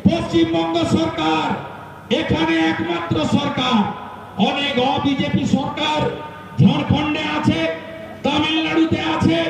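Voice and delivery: forceful stump oratory, each phrase held apart; political rally speech. Real, not acted. Speaker urging supporters to change the state government, forceful rally oratory. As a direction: declaim to the crowd in punchy, paused phrases.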